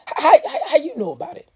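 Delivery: high, stammering alarm; Big Ma alarmed by the news; startled stammer. Acted. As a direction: stumble over it in fear.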